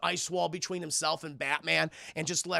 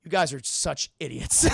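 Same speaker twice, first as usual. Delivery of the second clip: mock the henchmen while laughing; villain laughing at his henchmen; laughing insult; 3 semitones lower, 4 dB louder than usual. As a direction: scoff it through a laugh. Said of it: "he goes".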